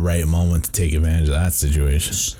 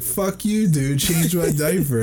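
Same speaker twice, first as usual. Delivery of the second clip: much higher, slow mock baby voice; 9 semitones higher, slower than usual. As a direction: whine it up high like a big baby, mocking. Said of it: "He's like".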